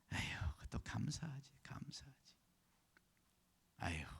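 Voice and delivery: very soft, half-whispered sigh of a line; acted wife talking to herself, trailing into a whisper; resigned murmured musing. (혼잣말처럼 나직이 읊조리는 아내 흉내)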